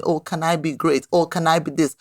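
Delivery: lightly acted begging for permission; a touch of pleading, asking for approval; mock pleading. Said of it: "we keep pleading".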